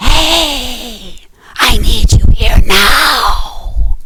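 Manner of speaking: stage whisper that still carries, projecting. Teaching voice projection, the speaker demonstrates a projected whisper. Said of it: "if I'm whispering something".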